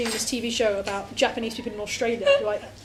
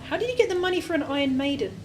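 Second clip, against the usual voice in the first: laughing; 4 semitones higher than usual. Retold or imitated. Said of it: "the most miserable, stoic demon".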